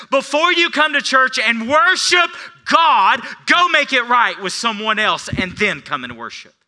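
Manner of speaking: loud, high proclaiming shout; shouted preaching. Acted. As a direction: cry it out to the whole church. Preacher voicing Jesus today.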